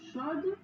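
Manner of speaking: chaude with its final D clearly sounded. Shown as a demonstration. Teacher showing pupils the D in chaude, final D sounded. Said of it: "on entend bien le D final".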